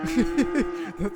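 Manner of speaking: sudden high loud yelp; startled loud outburst. Real, not acted. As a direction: blurt it out, startled. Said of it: "that was loud as shit".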